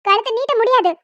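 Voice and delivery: emotional, forceful defiance; defiant refusal. Acted. Daughter refuses forced marriage despite threat of a slap, defiant. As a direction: stand firm against the threat, pushing the key words.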